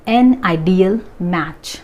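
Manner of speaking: an ideal match spelled out very slowly; very slow model. Shown as a demonstration. Teacher reading the answer very slowly to students. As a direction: read it out slowly for the class. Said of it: "ideal आ".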